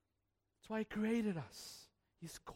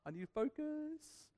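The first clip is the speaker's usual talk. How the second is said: weary plea; 8 semitones higher, 7 dB quieter, slower than usual. Retold or imitated. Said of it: "I'm like".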